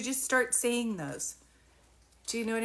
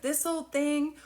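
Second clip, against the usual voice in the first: shrugging it off; 5 semitones higher, slower than usual. Retold or imitated. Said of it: "You're like".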